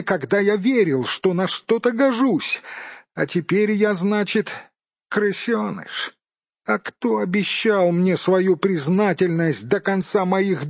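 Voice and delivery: high-pitched, aggrieved little hobbit; Bilbo. A narrator's reading. Hobbit answers the angry dwarf, high and aggrieved.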